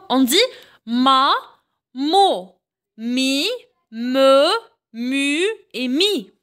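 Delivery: chaque syllabe en « j » détachée avec soin; syllabes articulées. Shown as a demonstration. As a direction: montre la syllabe, puis une pause. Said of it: "On termine toujours avec les syllabes". (syllabes en « j » dictées au professeur)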